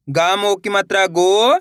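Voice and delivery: slow spelling-out, every syllable held long; syllable-by-syllable reading. Shown as a demonstration. Teacher leading learners to repeat along, slow and separated. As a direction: separate the sounds with clear gaps. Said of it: "मेरे साथ साथ इनको repeat करना है".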